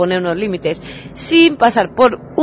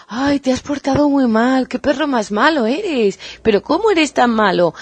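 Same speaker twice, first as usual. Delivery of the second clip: mock scolding words said sweetly, a touch higher; 3 semitones higher than usual. Shown as a demonstration. Owner sweetly scolding her dog in a sweet voice. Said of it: "decirle a tu perro con voz muy dulce".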